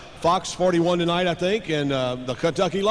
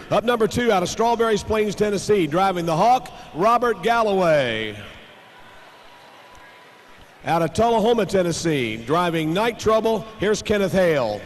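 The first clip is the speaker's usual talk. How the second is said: tractor pull announcer; 2 semitones higher than usual. Acted.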